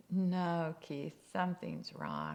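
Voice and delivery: loud, firm wifely warning; acted insistent protest; firm objection. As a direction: cut in firmly as the doubting wife. Wife warns her excited husband.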